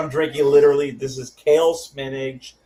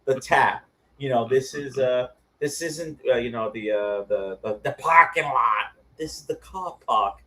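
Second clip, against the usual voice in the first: mock British accent. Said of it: "And I'm like".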